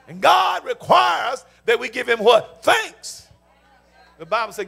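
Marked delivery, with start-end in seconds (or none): 0.1-3.3 emphatic call-and-response sermon; forceful preaching. Real, not acted. Preacher urging congregation to prepare thanksgiving, forceful preaching.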